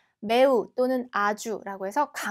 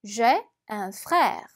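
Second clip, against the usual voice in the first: slow, careful French model sentence; slow teacher's French read-aloud; much slower than usual. Shown as a demonstration. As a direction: read it slowly like a language tape.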